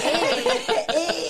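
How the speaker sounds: laughing, high "Eh" with a Scottish lilt; showing off eh. Shown as a demonstration. Explaining her habit of saying "eh" to friends, laughing. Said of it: "you say "eh" a lot as well".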